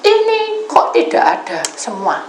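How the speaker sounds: high, retold angry questioning; angry demand. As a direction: demand it as the irate caller. Angry caller demanding in story. (meniru tuntutan bernada marah)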